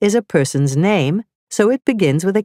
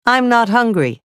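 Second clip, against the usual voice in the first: Sam speaking; 5 semitones higher than usual. Shown as a demonstration. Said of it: "Sam said".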